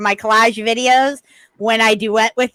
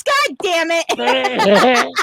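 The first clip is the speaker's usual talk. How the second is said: very slow, stretched-out "God damn it"; drawn-out mock curse; much slower than usual. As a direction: drag each word out in dismay. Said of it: "he goes".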